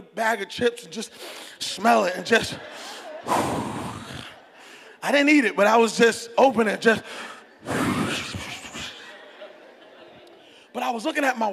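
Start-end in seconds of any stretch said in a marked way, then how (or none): 2.6-3.2 long, savoring sniff of food. Acted. Fasting man sniffing chips, longing sniff. 7.7-8.9 long, savoring sniff of food. Acted. Fasting man sniffing chips, longing sniff.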